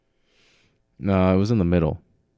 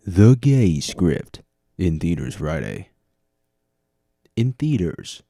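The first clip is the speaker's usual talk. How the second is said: movie trailer voice; 5 dB louder, slower than usual. Pretend.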